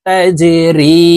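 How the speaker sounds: তাজরি: the রি stretched long, one alif; drawn-out madd. Shown as a demonstration. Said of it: "এক আলিফ টেনে পড়ব". (তাজরি শব্দে রি এক আলিফ টেনে)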